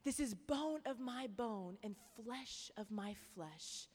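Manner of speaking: slow, tender marvelling; tender at last. Pretend. Adam tenderly greets Eve at last. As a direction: savour each word in awe. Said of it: "But he goes".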